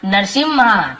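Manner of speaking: "नरसिम्हा" said nar-SIM-ha with a held m; "नरसिम्हा" spoken slowly, m doubled; saying Narasimha. Shown as a demonstration. Teacher showing the English-text name "नरसिम्हा" as nar-sim-ha. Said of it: "नरसिम्हा ऐसे बोलते हैं".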